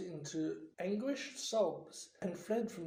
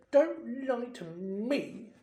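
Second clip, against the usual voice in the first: gasped; 5 semitones higher, 3 dB louder, slower than usual. Acted. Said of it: "Myrtle gasped".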